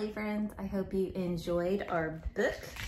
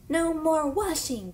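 higher and louder, gleeful; gleeful cheer; 9 semitones higher, 4 dB louder than usual. Acted. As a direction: cheer like escaping animals. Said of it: "the animals say".

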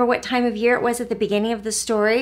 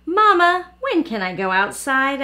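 put-on child voice; 4 semitones higher, 4 dB louder than usual. Child voiced in read story.

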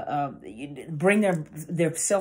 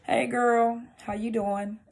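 restrained, cool inflection; unenthused greeting; 5 semitones higher, slower than usual. Shown as a demonstration. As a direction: greet her with little enthusiasm. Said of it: "depending on how you say it".

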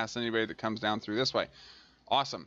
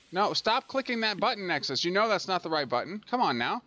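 scolding; 6 semitones higher than usual. Real, not acted. Scolds self for clicking wrong button.

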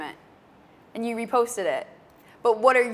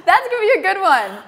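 high laughing reply; 10 semitones higher, 9 dB louder than usual. Real, not acted. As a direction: laugh through the words. Host laughs at answer.

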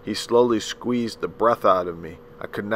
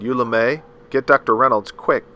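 urgent phone call; 3 semitones higher, 6 dB louder than usual. A narrator's reading. Aunt phoning urgently.

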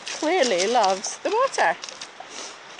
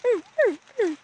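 imitating dog noise; 9 semitones higher, faster than usual. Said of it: "He makes this really funny noise".

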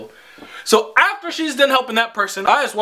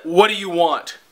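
lower, curt cashier question; imitated rude attitude; 4 semitones lower than usual. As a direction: mimic a dismissive, unwelcoming server. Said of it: "her whole fucking attitude, her whole demeanor".

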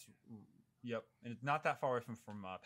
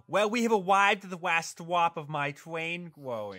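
put-on toddler voice; 4 semitones higher, much slower than usual. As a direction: talk slowly like a small child. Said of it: "Michael would say".

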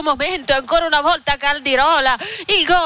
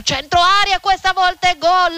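excited; 5 semitones higher than usual. Real, not acted. Live goal call on radio.

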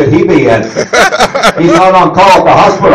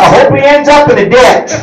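higher, louder repeat; 6 semitones higher than usual. Retold or imitated. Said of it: "you what?".

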